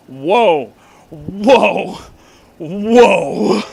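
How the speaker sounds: loud stretched whoa; loud, mock-awed whoa; amazed whoa. Real, not acted. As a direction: marvel out loud, dragging the vowel. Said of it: "reacting to song".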